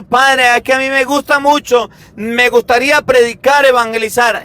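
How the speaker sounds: eager parishioner. Retold or imitated. Parishioner telling the priest they long to preach, eager. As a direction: gush to the priest. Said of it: "me han dicho".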